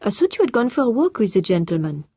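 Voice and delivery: put-on high, French-accented, polite and a little flustered; French-accented housekeeper. A narrator's reading. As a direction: play the French housekeeper, eager to report.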